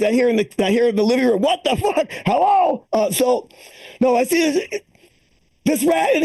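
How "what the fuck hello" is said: higher grumble and calling hello; in-laws callback. Retold or imitated. Comic recalling the in-laws shouting from the living room, higher. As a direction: toss off the in-laws' lines as a callback.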